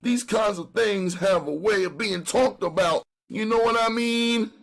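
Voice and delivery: high, pleading street hustler. Acted. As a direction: beg like a jailed junkie. Brown pleads with the officers.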